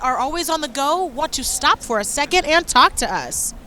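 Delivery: muffled behind a mask; talking through a mask; through a face mask. Real, not acted. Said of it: "I have my mask on my face".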